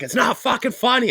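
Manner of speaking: high-pitched retold scolding; imitating annoyed wife. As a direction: play the wife who is not amused. Retelling wife scolding him.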